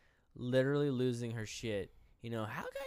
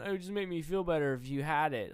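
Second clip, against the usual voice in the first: higher-pitched mimicry of her plea; mimicked complaint; 4 semitones higher, 4 dB louder than usual. Him mimicking her plea about the map, mock complaint. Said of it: "you're over here going".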